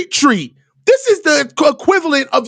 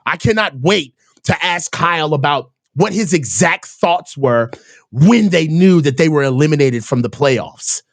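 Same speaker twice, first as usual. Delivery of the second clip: mock eager reporter; 11 semitones lower than usual. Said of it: "I was like".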